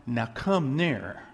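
Now come near, drawn out slowly; slow invitation. Shown as a demonstration. Pastor inviting the church closer, slow and deliberate.

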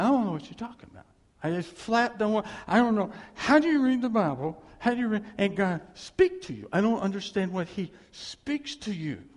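put-on a young man at his wits' end with his mentor; frustrated outburst.

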